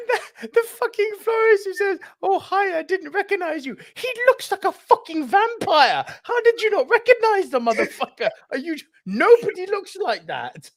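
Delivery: high, half-crying laughter through a rant; laugh-cry disbelief. Real, not acted. Ranting about florist scene.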